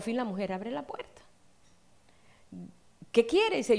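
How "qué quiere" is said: vecina molesta imitada. Retold or imitated. Neighbour answering the door, annoyed.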